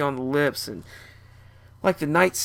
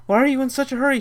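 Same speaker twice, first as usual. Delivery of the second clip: high, loud panicked question; freaked out; 10 semitones higher, 5 dB louder, faster than usual. Retold or imitated. Scared passenger yelling at the reckless rider. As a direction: voice the panic on a speeding bike. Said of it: "Freaking out, I said".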